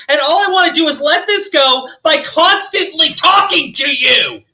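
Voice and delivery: mocking impression of Jesse ranting. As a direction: parody her shrill complaint. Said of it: "Jesse Smiles jumps in and goes".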